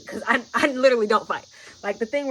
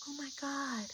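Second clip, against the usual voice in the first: shocked gasp; 4 semitones higher, 14 dB quieter, slower than usual. Retold or imitated. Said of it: "she couldn't believe she did it".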